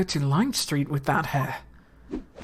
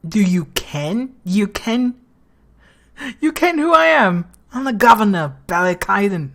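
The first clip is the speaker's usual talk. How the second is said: Scottish accent attempt, rising louder and higher; bad Scottish accent; 4 semitones higher, 5 dB louder than usual. Governor introduces himself to the lawyer, attempted Scottish accent. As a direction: put on a rough, imposing Scottish accent. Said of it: "I can't do Scottish".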